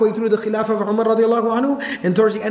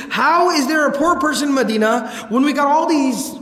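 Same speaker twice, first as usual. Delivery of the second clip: losing it; 5 semitones higher than usual. Retold or imitated. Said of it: "he would just lose it".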